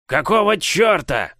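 slow, high squeaky giant bark. Acted. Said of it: "рявкнул он".

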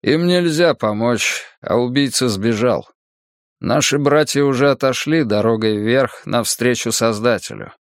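степенный монах, чуть выше; медленно, печально, с достоинством; голос монаха. Acted. Монах Мрак отдаёт распоряжения. (сдержанный голос монаха)

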